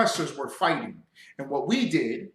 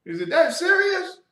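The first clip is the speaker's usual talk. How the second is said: dismissive retort; 11 semitones higher than usual. Retold or imitated. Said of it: "You be like".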